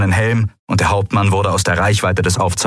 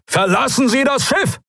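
hoch und laut geschrien; verzweifelter Schrei. Acted. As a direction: schrei sie an, sofort abzuspringen. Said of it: "brüllte Telios". (Telios schreit Likura panisch an)

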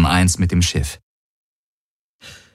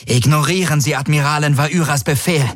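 breathless; 8 semitones higher than usual. Acted. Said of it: "atemlos über die Comms".

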